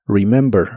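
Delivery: "remember" with soft r and short i; "remember" r barely touched. Shown as a demonstration. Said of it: "mucho más suave".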